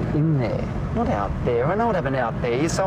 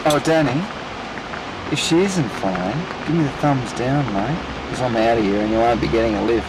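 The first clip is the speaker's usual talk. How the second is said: impatient calling; 4 semitones lower than usual. Acted. Impatient ultimatum from car.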